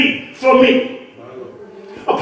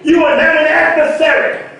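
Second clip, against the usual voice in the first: preached rebuke; 3 semitones higher than usual. Retold or imitated. Jesus rebuking Peter, preached.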